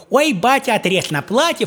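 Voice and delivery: high mock girl's voice; eager daughter. The daughter asks her father for dress cloth, high mock voice. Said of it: "Говорит".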